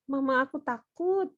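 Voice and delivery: mild imitation of a plaintive child; scared child. Speaker imitating own child coming to mama, mildly fearful. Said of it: "Biasa kalau anak saya bilang gitu".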